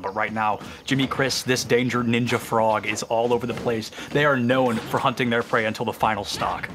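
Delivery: low, measured wildlife narrator; nature documentary. Pretend. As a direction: describe the fighters like wild animals. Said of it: "commentating this like a documentary".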